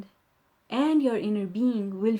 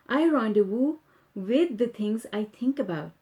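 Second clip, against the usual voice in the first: steady, earnest reading of affirmations; calm affirmation read-aloud. Acted. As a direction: read each line as a personal promise. Reads affirmation rampage aloud.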